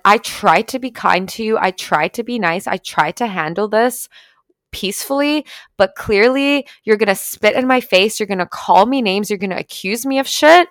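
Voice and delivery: retold angry rant. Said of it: "So then I fucking flipped".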